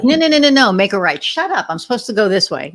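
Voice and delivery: pushy passenger shouting directions; bossy backseat driver. Pretend. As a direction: nag at the driver like a backseat critic. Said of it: "the backseat drivers".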